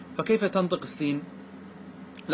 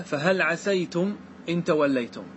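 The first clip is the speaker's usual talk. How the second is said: slow recited فهل عسيتم with a fatha on the s; Quran recitation. Shown as a demonstration. Teacher reciting the majority reading to the class. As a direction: intone the verse slowly. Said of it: "قال تعالى".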